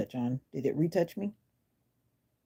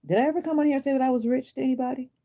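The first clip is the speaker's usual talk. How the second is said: laughing; 8 semitones higher, faster than usual. Real, not acted. Laughs at a commenter's insult.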